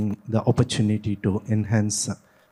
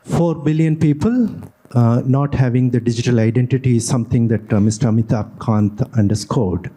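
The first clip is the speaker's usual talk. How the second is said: speaking up. Real, not acted. Audience questioner repeats for a moderator who couldn't hear, speaking up. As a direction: speak up so the room can hear. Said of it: "could you speak up, please".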